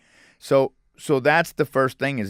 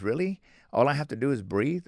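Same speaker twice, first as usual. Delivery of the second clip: imitating surprised disbelief, pitched up; 4 semitones higher than usual. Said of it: "they're always surprised".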